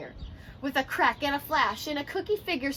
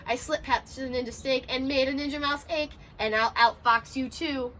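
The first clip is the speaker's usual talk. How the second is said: taunting cookie. Acted. Cookie taunting the Ninja Fox.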